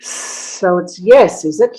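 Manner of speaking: slow, drawn-out snake hiss. A narrator's reading. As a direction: coax him like a hissing snake. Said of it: "she hissed".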